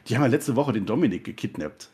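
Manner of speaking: put-on "gekidnappt" with the syllable "kid" lightly stressed. Shown as a demonstration. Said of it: "Mit Betonung auf Kid".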